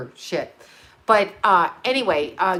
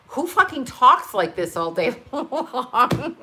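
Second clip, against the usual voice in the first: laughing; 3 semitones higher, slower than usual. Retold or imitated. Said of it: "And I'm like".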